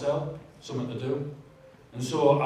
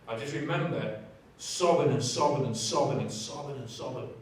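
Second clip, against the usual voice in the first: emotional, fading. Real, not acted. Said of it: "I always get a bit upset here".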